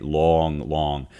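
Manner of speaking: Long long, both drawn out and weighted; heavy spondee. Shown as a demonstration. Teacher shows the heavy spondee, slow and weighted. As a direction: lean on each long evenly. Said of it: "the spondies are the heavy ones".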